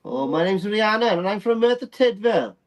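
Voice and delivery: lightly put-on Welsh accent; a hint of a Welsh girl. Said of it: "little Welsh accent".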